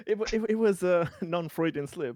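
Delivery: laughing. Real, not acted. Laughing after calling Arturo idiot.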